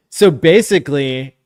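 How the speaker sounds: loud put-on reading voice, about to crack up; failed normal voice. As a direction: start too loud, slipping into a silly voice. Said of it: "Come on, normal voice".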